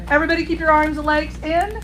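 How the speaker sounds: theme park ride announcer. Retold or imitated. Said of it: "I usually sound like the people on Silver Dollar City".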